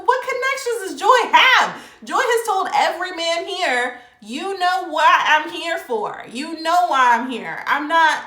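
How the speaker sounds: high, loud, incredulous rant defending Joy; loud, high indignant protest on Joy's behalf; indignant outburst. Retold or imitated. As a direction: fire it back in a loud, disbelieving high voice. Retelling her own outburst at Clifton.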